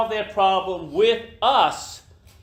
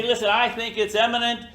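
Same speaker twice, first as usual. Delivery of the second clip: mock urgent warning; 5 semitones higher than usual. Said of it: "then run over there and say".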